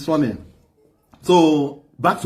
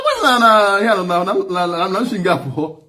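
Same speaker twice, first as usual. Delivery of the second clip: startled protest; 2 semitones higher than usual. Retold or imitated. Acted startled phone reply after leader calls.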